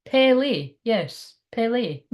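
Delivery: stretched-out Pele, as a pronunciation check; careful pronunciation. Shown as a demonstration. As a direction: slowly sound out Pele in two drawn syllables. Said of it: "It's pronounced".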